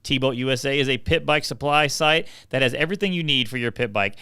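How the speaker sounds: upbeat sponsor read for the listeners. Acted. Host reading the sponsor ad to listeners, upbeat ad read. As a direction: sell it like a radio spot.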